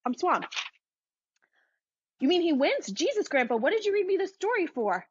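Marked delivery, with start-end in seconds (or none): 2.2-5.0 put-on higher, whiny kid protesting; sick kid. Kid objects to grandpa's story ending, higher and whiny. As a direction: complain like a cheated little boy.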